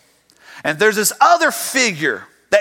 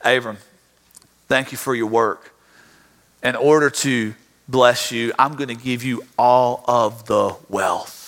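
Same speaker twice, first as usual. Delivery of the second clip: tempting king; 6 semitones lower, slower than usual. Retold or imitated. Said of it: "this man comes and says".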